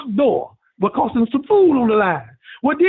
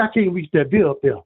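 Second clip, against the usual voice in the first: friend Sweet Willie; 6 semitones lower than usual. Retold or imitated. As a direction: drop low and drag it out, down in the dumps. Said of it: "He said".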